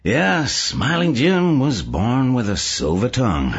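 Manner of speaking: tag. A narrator's reading. Delegate character praises a speaker.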